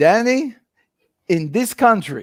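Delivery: slow, put-on French accent. Quoting advice from a man from France, the speaker is imitating a French accent. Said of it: "I'll say it in his accent".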